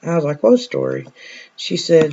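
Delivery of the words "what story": sharp, much higher startled question; surprised question. Retold or imitated. Nurse hearing of the pink-robe ghost, surprised. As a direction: jump up in pitch, caught off guard.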